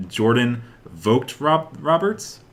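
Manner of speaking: Jordan Vogt Roberts sounded out slowly, Roberts rising high like a question; unsure pronunciation. Real, not acted. Host unsure how to say the director's name, rising. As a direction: test out Vogt Roberts hesitantly. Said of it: "I don't know how to pronounce it".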